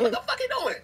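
high, laughing mock outrage; laughing disbelief. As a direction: squeal it out through a laugh, half joking. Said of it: "I said".

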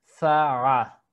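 slow za'a with catch; final ain form. Shown as a demonstration. Teacher slowly showing final ain. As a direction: stretch za'a with a throat stop. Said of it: "su forma final es así".

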